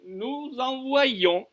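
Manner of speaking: slow NOUS ENVOYONS with a clear y glide; careful model pronunciation. Shown as a demonstration. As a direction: draw out ENVOYONS, sounding the y glide. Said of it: "avec un Y".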